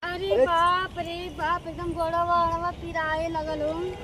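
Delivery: slow, drawn-out weary whine; aching moan. Acted. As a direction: groan about sore legs, dragging the words. Wife moans about aching legs. (दरद से कराहत, खींच-खींच के)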